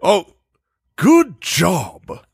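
put-on British old-gent accent. Host reads a British fan's review, British accent. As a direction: read it like a British gentleman. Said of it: "you have to read it in U K".

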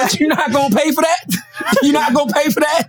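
hammed-up Southern clerk; Southern store clerk. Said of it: "convenience store down south".

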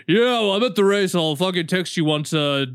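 lightly mocking impression of a friend's texts; slightly pushed, offhand mock texting voice. Friend mimics co-host's late excuse from the race, mock texting voice. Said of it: "that's exactly what I sound like in text form".

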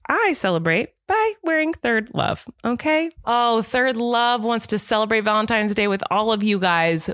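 emphatic, lilting sponsor read; hammed-up pitch with high swoops; playful ad read. Host sells sponsor to listeners, playful ad read. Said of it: "I wanna talk like this".

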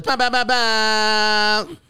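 slow, drawn-out hype chant; hype man. Acted. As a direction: hype the crowd like a DJ. Hype intro again.

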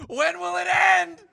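tormented inner voice screaming behind laughter; drawn-out, very high mock-anguished wail; a singer. Imagining the star's hidden inner voice, hammed-up despairing scream. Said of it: "behind this laughter, is there a voice".

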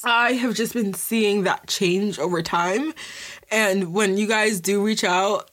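thick, teary, slowed voice; choked-up voice. Real, not acted. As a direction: speak through a lump in the throat. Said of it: "I feel like I sound so gross right now".

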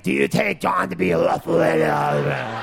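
mock wedding officiant, slow, half-laughing call; Harvey Fierstein officiating. Comic imagines Harvey Fierstein marrying a couple, mock officiant voice. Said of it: "Harvey Fierstein would do, like, the thing".

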